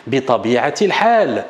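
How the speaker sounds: "bi tabi'atil hal" said slowly, sinking on "hal"; slow model phrase. Shown as a demonstration. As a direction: read it out slowly for students to repeat. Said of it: "une autre formule".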